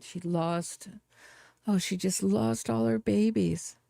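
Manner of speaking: light mock of "she just lost all her babies"; mocking the phrase. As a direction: echo "lost" as a sneer. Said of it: "how language is so important".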